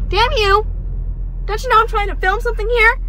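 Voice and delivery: loud, high exasperated yell. Real, not acted. Vlogger yelling at whoever interrupts her filming, in an exasperated shout. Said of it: "don't know why I'm yelling".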